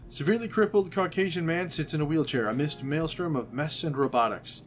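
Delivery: measured, descriptive narrator reading; story narration. A narrator's reading. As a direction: read out the scene like a game master. Reads game text aloud.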